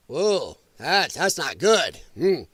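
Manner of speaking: mock American Indian accent. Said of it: "I went American Indian on that one".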